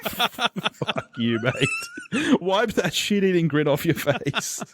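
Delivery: playful fuck you through laughter; laughing, teasing; laughing mock insult. Real, not acted.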